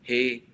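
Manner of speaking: "Hey" sustained and loud on one note; a firm, chanted "Hey"; stress on Hey. Shown as a demonstration. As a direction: lean hard into "Hey" and hold it. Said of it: "this is the emphasis".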